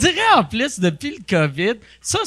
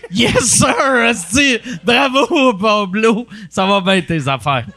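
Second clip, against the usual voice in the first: mock cheering friend; slower than usual. Friend imagines her cheering the homeless thief. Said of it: "tu vas être comme".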